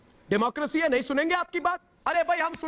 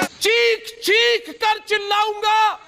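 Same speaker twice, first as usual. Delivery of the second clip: shout; 5 semitones higher, slower than usual. Acted. Arnab ranting about shouting.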